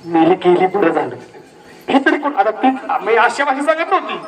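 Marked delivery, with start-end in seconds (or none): 0.0-1.2 put-on old woman's dismissive gossip, pitched much lower; mock the old woman shrugging off the death. Old woman gossips in the shop, low dismissive mock voice. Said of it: "काय सांगायला लागली?".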